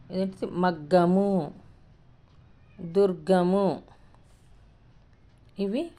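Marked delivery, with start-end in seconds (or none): 0.5-1.5 మగ్గము drawn out clearly; slow pronunciation. Shown as a demonstration. Teacher reads out practice word. 2.8-3.8 దుర్గము drawn out very slowly; slow pronunciation. Shown as a demonstration. Teacher reads out practice word.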